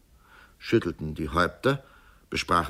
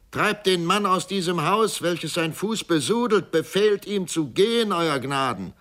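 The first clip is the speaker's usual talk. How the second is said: furious high shouting; angry call; 11 semitones higher, 3 dB louder than usual. Acted. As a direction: demand it in outrage. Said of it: "rief Georg Kindler".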